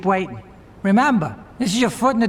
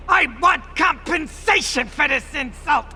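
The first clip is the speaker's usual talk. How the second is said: raised, indignant demand; angry outburst; 8 semitones higher than usual. Acted. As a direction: bark it out like an insulted boss. Mob boss angered by insult.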